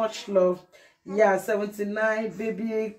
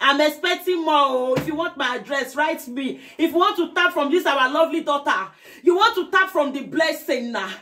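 hyped appeal; 4 semitones higher than usual. Real, not acted. Hyping viewers to send gifts.

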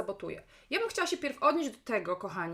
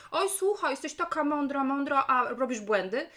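mocking; 3 semitones higher, 4 dB louder than usual. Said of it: "ktoś mi napisze coś takiego".

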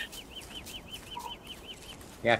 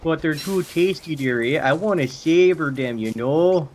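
put-on old lady voice; 5 semitones higher, 4 dB louder, slower than usual. Old granny voice, dearie.

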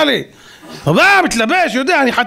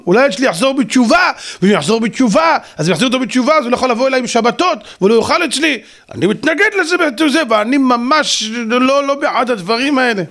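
higher, agitated, rushing protest; mock panicked father; 3 semitones higher than usual. Preacher mocking a scared father who fears the ban, hammed-up higher pleading. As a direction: ham up a scared secular dad pleading.

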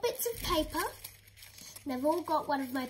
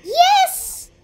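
very high squeaky pretend dog voice; dog's voice; 17 dB louder than usual. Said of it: "talk to that pet".

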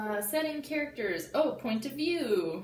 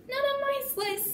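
friend voice; 3 dB louder than usual. Acted. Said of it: "said Travis".

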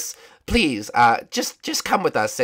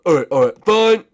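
Raggedy Princess; 4 dB louder than usual. Pretend. Princess agrees to compete, cartoon voice. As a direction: declare it in a put-on princess voice. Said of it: "Raggedy Princess, are you sure".

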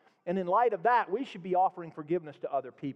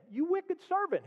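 sharp, much higher scolding cry; angry rebuke; 12 semitones higher than usual. Acted. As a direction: scold the servant in anger. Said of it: "he said".

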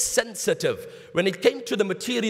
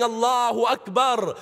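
mild mock yell, voice slightly raised; retold yelling; 3 semitones higher than usual. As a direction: call it out in a restrained imitation of yelling. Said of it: "started yelling".

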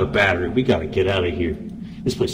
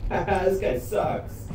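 slowed-down voice; 9 semitones higher, much slower than usual. Acted. Slowed distorted voice.

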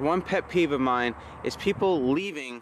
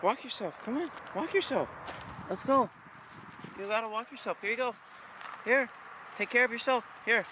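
talking to the dog; 7 semitones higher, 4 dB quieter than usual. Real, not acted.

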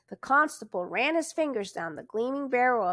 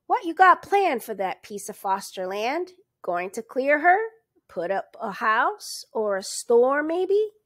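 cheerful; 3 semitones higher, 5 dB louder than usual. Acted. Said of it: "went on cheerfully".

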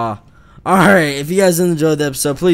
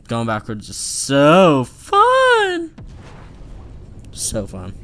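sarcastic; much slower than usual. Pretend. Sarcastic drawn-out whine.

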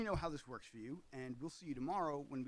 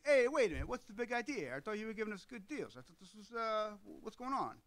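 loud, high, outraged orc voice; indignant orc; 8 semitones higher, 7 dB louder than usual. Retold or imitated. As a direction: blurt it like a cheated brute. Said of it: "one of the orcs goes".

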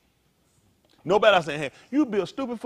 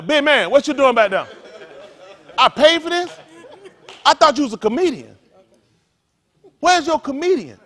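mocking comedian; 7 semitones higher, 8 dB louder than usual. Comedian mocking a crowd member.

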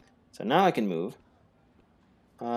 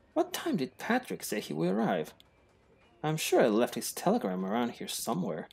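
1 posh character voice; 5 semitones higher than usual. Acted. Voicing game character.

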